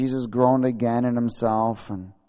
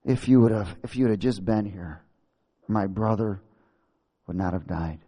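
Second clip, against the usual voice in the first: lower, halting, mournful reproach; mildly plaintive Martha; 4 semitones lower than usual. Acted. Martha to Jesus about her dead brother, manipulative reproach. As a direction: lay on the guilt in broken phrases. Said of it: "Talk about manipulation".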